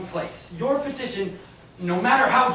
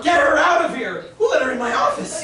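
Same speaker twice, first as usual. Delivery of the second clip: angry outburst; 5 semitones higher, 4 dB louder than usual. Acted. Banker furious at clerk.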